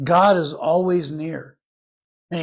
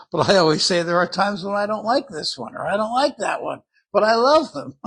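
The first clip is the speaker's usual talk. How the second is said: higher, quicker, breaking into laughter; amused; 4 semitones higher, 4 dB louder than usual. Real, not acted. Parent joking to congregation about own children, amused. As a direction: joke fondly through a laugh.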